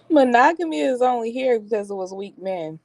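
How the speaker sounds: laughing. Real, not acted. Laughing while making a claim.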